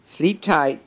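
high-pitched bedtime wish from a story elephant; Gerald. A narrator's reading. Gerald wishes Piggy goodnight, high character voice. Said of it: "says Gerald".

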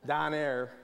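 brief taste of Pittsburgh accent. Shown as a demonstration. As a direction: say it like a Pittsburgh local. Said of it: "kinda like in Pittsburgh, where I'm from".

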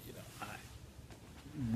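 yawning. Real, not acted. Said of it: "I'm exhausted".

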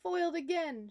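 high, loud villain's huff; frustrated shout. A narrator's reading. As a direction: shout it like a thwarted cartoon villain. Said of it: "shout the germ".

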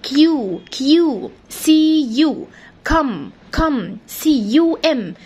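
"كم، كم" drawn out slowly syllable by syllable; slow syllable split. Shown as a demonstration. Teacher breaks "cucumber" into slow syllables for the children. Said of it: "تعالى اقسمها لك".

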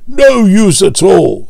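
slow, sulky engine grumble; grumbling Gordon. A narrator's reading. Gordon pulling dirty coal trucks, grumbling slowly. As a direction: drag it out in disgust. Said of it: "said Gordon".

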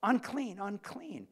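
loud, high outcast's cry; calling out a warning. Retold or imitated. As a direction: cry it out so people keep away. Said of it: "call out".

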